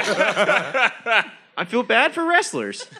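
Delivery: slow words through a mask; talking slowly behind a mask; muffled by mask. Real, not acted. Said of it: "It's hard to talk with this mask on".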